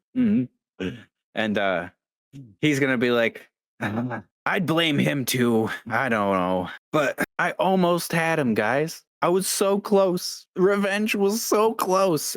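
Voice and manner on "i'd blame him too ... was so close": crumbling, tearful, high voice breaking toward tears. Voicing a character who starts to break down: NPC breaking down in tears. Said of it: "starts to break down".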